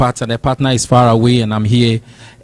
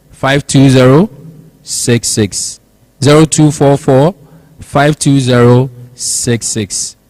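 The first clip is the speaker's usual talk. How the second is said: radio ad read. Acted. Reads sponsor ads on air.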